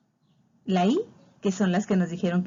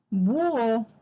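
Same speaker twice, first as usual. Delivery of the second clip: BÚHO with the Ú stressed and stretched; teacher sounding out búho; accented vowel; 3 semitones higher than usual. Shown as a demonstration. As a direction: lean on the Ú in búho. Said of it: "y se acentúa".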